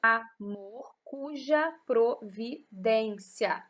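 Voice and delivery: very slow, split into separate syllables. Shown as a demonstration. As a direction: count out each syllable with a gap after it. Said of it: "Quando a gente conta assim, genericamente".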